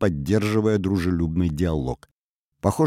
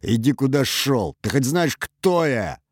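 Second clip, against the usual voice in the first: put-on higher, angry drunken challenge; growling; 7 semitones higher than usual. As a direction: snarl it at him, rising to the end. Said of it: "зарычал он". (пьяное злое рычание)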